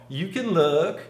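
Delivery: mock high woman's voice.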